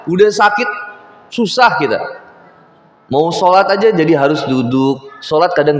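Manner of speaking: loud, high hadith preaching; preacher pressing a hadith on the congregation, loud; full-force preaching. Acted. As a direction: drive the hadith home to the crowd.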